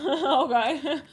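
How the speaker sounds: high, loud word through laughter; laughing. Real, not acted. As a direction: say it while cracking up. Cracking up at own remark.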